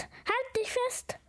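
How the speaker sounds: high, drawn-out storybook call; gently acted warning call. A narrator's reading. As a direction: call it out slowly and high, without real volume. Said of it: "rief der Fuchs".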